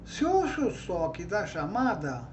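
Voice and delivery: lightly declaimed verses; poem recital. Shown as a demonstration. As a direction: read the rhyme out to the class. Recites her example trova. (recitando a trova, levemente declamada)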